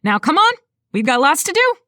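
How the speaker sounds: loud, brisk Texan businesswoman voice; Texan woman voice. A narrator's reading. Designer urges clients along.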